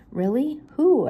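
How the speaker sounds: sharp rise of surprise on who; a quick startled who; surprised question. Acted. Daphne asking Roger, surprised.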